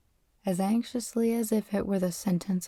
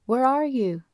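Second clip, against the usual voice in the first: higher, raised searching call; panicked shout; 5 semitones higher, 4 dB louder than usual. A narrator's reading. Bunny finding no sign of his friend, panicked shout. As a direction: shout out to someone you can't find. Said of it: "he shouted".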